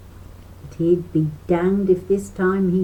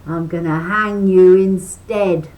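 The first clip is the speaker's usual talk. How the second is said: fox threat; 2 semitones higher, 10 dB louder than usual. A narrator's reading.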